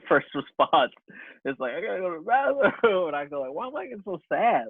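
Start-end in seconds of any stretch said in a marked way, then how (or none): 1.7-4.6 mock near-tears. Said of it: "I immediately wanna cry".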